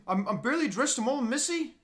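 Canadian attempt slipping into Scottish; mock Canadian accent. Shown as a demonstration. Showing friend, botched Canadian-Scottish accent. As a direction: aim Canadian, drift toward Scottish vowels. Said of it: "That's like a Scottish thing".

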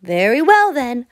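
a resigned little hen. Acted. Hen answers the animals.

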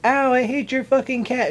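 high, loud pained outburst; angry yelp. Retold or imitated. Friend bitten by the cat, loud angry yelp. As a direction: snap in sudden pain and hate. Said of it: "And then she's like".

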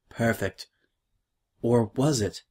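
hushed, breathy question; whispered aside. A narrator's reading. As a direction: whisper it like a secret doubt. Narrator's suspenseful aside.

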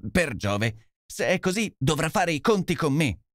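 a hammed-up inspector's angry cry; shout. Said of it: "gridò Lestrade".

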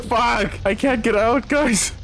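high, panicked cries for help; mock panic. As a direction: play at being trapped and scared. Stuck in burning building.

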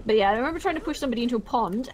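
laughing. Real, not acted. Laughing while recalling drunken story.

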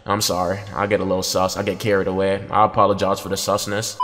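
low, soft, deflated; sheepish apology. Real, not acted. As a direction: confess quietly after getting carried away. Sheepish apology after getting carried away.

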